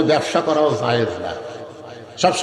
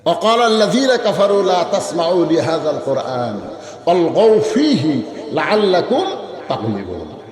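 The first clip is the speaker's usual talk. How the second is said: Quran recitation; slower than usual. Real, not acted. Preacher quoting the verse to the gathering, Quran recitation. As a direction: recite the verse with drawn-out syllables.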